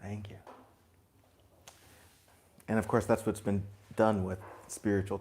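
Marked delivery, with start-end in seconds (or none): 0.0-0.4 grateful thanks. Retold or imitated. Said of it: "if you perceive it for love".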